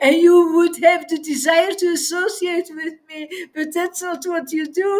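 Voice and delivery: quick words broken by laughter; laughing rebuke. Real, not acted. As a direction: scold through a laugh.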